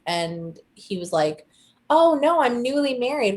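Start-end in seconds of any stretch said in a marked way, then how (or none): 1.9-3.4 higher, louder wide-eyed protest; mock innocent denial. Suspect answering detective, higher mock-innocent protest. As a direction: act shocked at the very idea.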